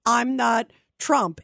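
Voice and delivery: slow, each word spelled out like a slogan; slow mock slogan. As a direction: lay out the slogan slowly. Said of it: "is what I think Biden's hoping for".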